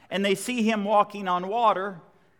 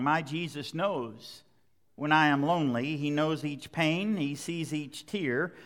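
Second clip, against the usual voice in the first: tender song quote; 3 semitones lower, 3 dB quieter than usual. Acted. Quoting a worship song softly.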